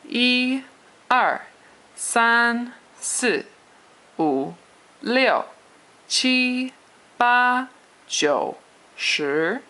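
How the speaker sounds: "一", "三", "七", "八" held high and level, "二", "四", "六" falling sharply; exaggerated Mandarin tones. Shown as a demonstration. Teacher drilling Chinese numbers for learners, exaggerated tones. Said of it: "Chinese pronunciation with the tones".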